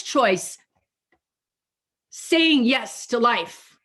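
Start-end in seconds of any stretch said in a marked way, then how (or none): 2.1-3.8 slow affirmation. Shown as a demonstration. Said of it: "That's what I was gonna say before".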